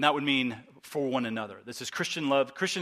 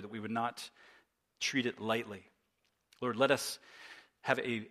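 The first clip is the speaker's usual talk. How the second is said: earnest prayer. Real, not acted. Pastor leads congregation in prayer.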